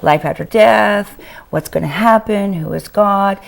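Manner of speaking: losing her voice, hoarse; strained, worn-out voice. Real, not acted. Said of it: "I have lost my voice".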